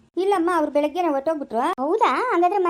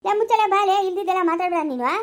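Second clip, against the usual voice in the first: angry shout; 4 semitones higher than usual. Acted. Husband shouts at his wife to shut her mouth.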